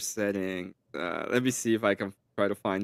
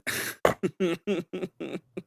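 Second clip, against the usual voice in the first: laughing; 8 semitones higher than usual. Real, not acted. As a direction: crack up at the glitch. Friend's voice glitching.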